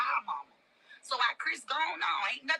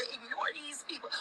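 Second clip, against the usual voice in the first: soft whisper; 3 semitones higher, 6 dB quieter than usual. Real, not acted. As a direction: whisper "ignore these people" softly, without voice.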